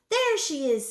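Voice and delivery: high, loud cry of discovery; calling out. A narrator's reading. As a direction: call it out to the pursuers. Manager calls out in the chase.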